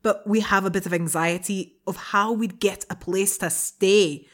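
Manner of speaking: hammed-up Scottish-sounding brogue; attempted Irish accent. Co-host reading a student's letter about moving abroad, attempted Irish accent. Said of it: "That's a brilliant Scottish".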